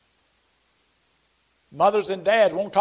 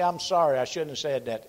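gentle apology; 3 semitones lower than usual. Shown as a demonstration. Preacher models a gentle apology to a brother. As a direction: say sorry gently and mean it. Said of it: "in that tone of voice".

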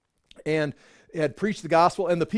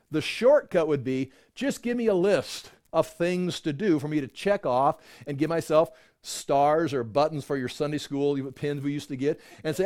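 ordinary talk

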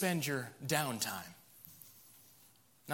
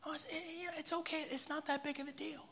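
high, soft, breezy brush-off; mock dismissive excuse; 10 semitones higher, 9 dB quieter than usual. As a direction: wave it away lightly. Mocking the world's excuse.

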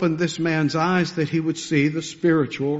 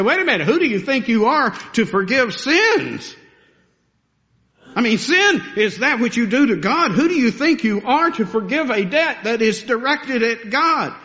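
voicing the outraged Pharisees, higher; indignant scribes; 5 semitones higher than usual. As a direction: challenge him as an offended scribe. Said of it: "They say".

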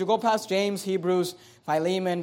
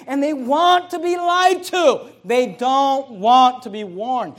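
loud, slow, high and emphatic; preaching at full force; 4 semitones higher, 7 dB louder, slower than usual. Acted. Pastor warning his congregation about false prophets, slow loud preaching. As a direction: hammer each word at the crowd.

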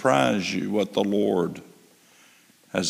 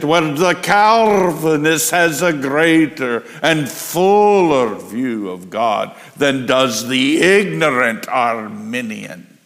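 put-on quoting Lloyd Jones in a Welsh accent; a touch of Welsh lilt, slowing down; preacher's Welsh accent imitation; 4 dB louder than usual. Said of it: "in that great Welsh accent".

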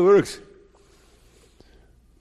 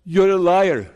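lightly raised stern voice of the Lord; the Lord accusing; 4 semitones higher than usual. Retold or imitated. Preacher voicing the Lord accusing the sinner, mildly stern. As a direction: accuse plainly, a hint of divine judgment. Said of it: "So the Lord says".

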